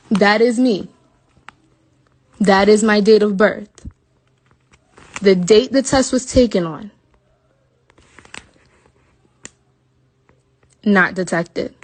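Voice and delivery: showing the proof, loud and indignant; pointing at each line in anger; loud outrage. Real, not acted. Showing viewers her negative test, loud and indignant.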